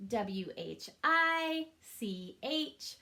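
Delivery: each letter said slowly and evenly; slow letter tapping. Shown as a demonstration. Teacher arm-tapping letters with students, slow and even. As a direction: tap out every letter slowly. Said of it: "Let's arm tap that".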